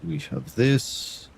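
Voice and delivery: lightly put-on, hammy Eastern European accent; mock Eastern European accent for the chat, barely pushed; playful, half-hearted Eastern European accent; bad Eastern European accent. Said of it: "Central is wanting to hear bad Eastern European accent".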